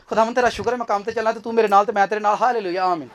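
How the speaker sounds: fast, soft, offhand mumbled prayer; mock rushed prayer. Preacher mocking a ten-minute artificial prayer, rattled off. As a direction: rattle it off like a chore. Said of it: "artificial prayer".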